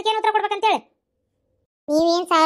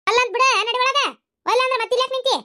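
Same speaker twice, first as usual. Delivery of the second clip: higher-pitched cross order; impatient scolding; 5 semitones higher than usual. Acted. Elder ordering the reluctant girl indoors, impatient scolding. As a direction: chivvy her along impatiently.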